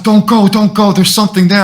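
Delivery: high, loud mock panic; panicked pleading imitation. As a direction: beg like a terrified friend. Scared friend's pleading acted out.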